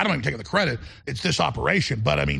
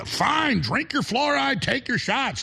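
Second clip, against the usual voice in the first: sarcastic; 8 semitones higher, slower than usual. Real, not acted. Sarcastic dismissal of opponents.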